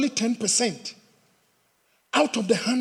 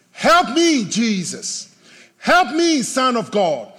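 loud, high plea on "Help me"; crying out loudly; 3 semitones higher, 5 dB louder, slower than usual. Acted. Believers in dire situation crying to God, loud plea. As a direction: surge on each plea, then fall away. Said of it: "we cry to God with loud voices".

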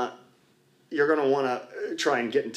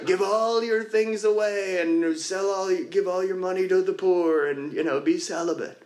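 higher mock God voice; 5 semitones higher than usual. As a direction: lightly play God repeating the order, higher. God repeats the command.

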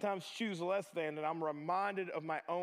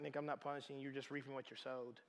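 soft divine reply; 6 semitones lower, 10 dB quieter, faster than usual. Pretend. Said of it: "God's like".

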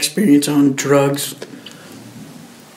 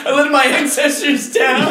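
mock anguished shout; 10 semitones higher than usual. Joining the joke.

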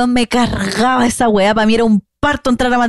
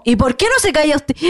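higher-pitched, mock loud retort; retold out-loud retort; 4 semitones higher than usual. Friend repeating the retort to the teacher, mock loud. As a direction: call it out as if repeating it publicly. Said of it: "lo dijo en voz alta, muy alto".

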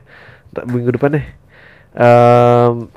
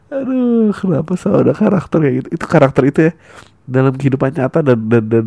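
ordinary talk

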